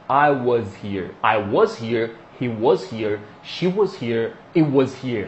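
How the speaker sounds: "was" as WUHZ, low and measured; short UH and Z in every "was"; nicer "was". Shown as a demonstration. Teacher drilling the nicer version, low-pitched "wuhz" for "was". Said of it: "som de z".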